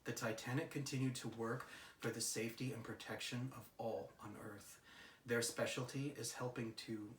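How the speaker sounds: soft, measured read of a solemn message. Real, not acted. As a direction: read it out quietly and evenly. Reads out the channelled message.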